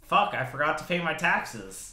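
slow, drawn-out cartoon voice; Crash Bandicoot. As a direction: speak like Crash Bandicoot, slowly. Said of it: "That was good".

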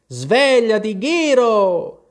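high, loud wake-up call; big storybook shout. A narrator's reading. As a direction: yell to rouse a sleeper. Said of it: "gridarono all'unisono".

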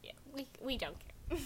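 hushed conspiratorial whisper. Acted. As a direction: whisper it like a secret. Secret gossip about a friend.

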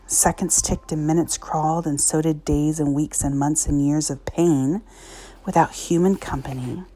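reading a story aloud; story narration. Acted. Reads an inspirational story aloud.

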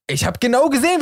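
high, pressing outburst; mock accusation. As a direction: accuse suddenly, pitch jumping up. Acts sudden accusation.

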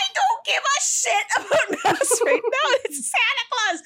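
laughing shout over the mass argument; defiant kid yell. Retold or imitated. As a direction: yell it back at mom like an outraged little girl. Child yelling back at mom.

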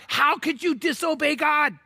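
high, incredulous question; shocked disbelief. Retold or imitated. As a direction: ask it aghast, like a stunned sailor. Sailors shocked at Jonah.

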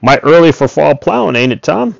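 a neighbour calling a friendly jab; calling back. A narrator's reading. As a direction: call it out from the road. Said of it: "and then called back".

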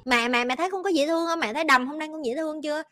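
put-on a small girl fishing for praise; a lightly voiced proud daughter; confident little girl. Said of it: "bà tưởng đâu bà là ngon nhất".

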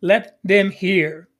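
slow, weighty scripture reading; solemn scripture, slow and measured. Shown as a demonstration. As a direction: read the verse slowly, each word weighed. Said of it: "So as I continue".

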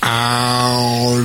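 drawn-out slow-motion cry. Pretend. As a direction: stretch the word out as if stuck in goo. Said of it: "moving in slow motion".

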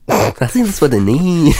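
repeating it while cracking up; laughing echo. Real, not acted. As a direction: laugh the words out.

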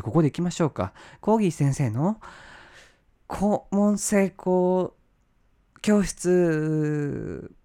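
loud, high, slowly stretched title call; show announcer. Pretend. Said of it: "announcing his own show segment".

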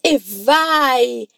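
a glad, relieved cheer; bright "E vai!" of relief; happy and relieved. Shown as a demonstration. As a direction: cheer it like good news just came. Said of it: "ele responde feliz e aliviado".

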